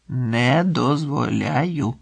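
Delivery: slow, drawn-out refusal; firm refusal. Acted. Boss overruling a request to make a statement, firm refusal. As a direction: forbid it word by drawn-out word.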